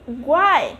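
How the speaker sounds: "guai" held out as the strong syllable; stressed final syllable. Shown as a demonstration. Teacher isolates the tonic syllable of Paraguay, stressed "guai". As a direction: lean on "guai", drawn long. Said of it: "we take longer to speak the final".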